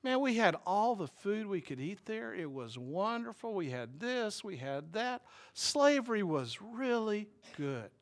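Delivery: lightly voiced wistful Israelites; a hint of rose-tinted longing; dreamy nostalgic grumbling. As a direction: daydream fondly of the old days. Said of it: "they really start fantasizing".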